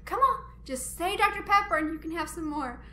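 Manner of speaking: mock-pleading uncle; coaxing uncle. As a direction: coax the little one to say it. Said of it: "Coco's like".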